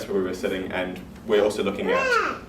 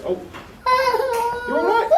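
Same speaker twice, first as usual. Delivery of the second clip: loud, high laughing question; 7 dB louder than usual. Real, not acted. Host asks a guest if they're all right, laughing. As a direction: ask if they're ok while cracking up.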